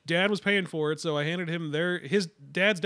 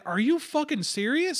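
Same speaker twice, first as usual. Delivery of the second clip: pitched way up, slow and incredulous; exasperated disbelief; 8 semitones higher, slower than usual. Retold or imitated. To the cashier refusing to help, slow incredulous outrage. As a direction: let the outrage stretch each word. Fed-up customer at the drive-through.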